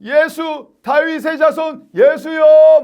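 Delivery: high, drawn-out cry; slow, high-pitched call for help; shouting out. Acted. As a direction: yell for Jesus over the crowd. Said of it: "막 소리를 질렀어요".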